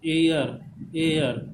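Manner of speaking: एयर drawn out, gliding from ए into अ; diphthong demonstration. Shown as a demonstration. Teacher showing where the ए-अ sound comes, drawn-out demonstration. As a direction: stretch एयर so both vowels show. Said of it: "ए और अ का sound".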